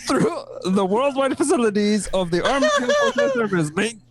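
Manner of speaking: put-on Kiwi accent.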